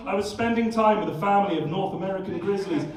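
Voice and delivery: lightly voiced documentary presenter impression; a hint of TV documentary voiceover; Louis Theroux. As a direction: narrate like an earnest documentary interviewer. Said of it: "Louis Theroux interviewing a family of grizzly bears".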